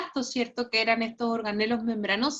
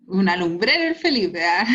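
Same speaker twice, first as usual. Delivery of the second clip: laughing praise; 6 dB louder than usual. Real, not acted.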